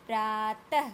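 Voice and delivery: प्रातः drawn out, then a clear final h; visarga demonstration. Shown as a demonstration. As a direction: model प्रातः for students to repeat, h after त. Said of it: "आप लोग सब उच्चारण करके देखें". (प्रातः को खींचकर, अंत में ह)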